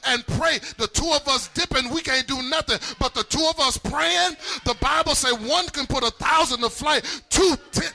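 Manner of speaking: rally the congregation, stretching the key phrases; fervent sermon delivery; full-force preaching. Real, not acted.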